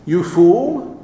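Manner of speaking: "You fool" echoed as a doubting question; incredulous echo. Acted. Preacher doubting the insult's weight, incredulous echo.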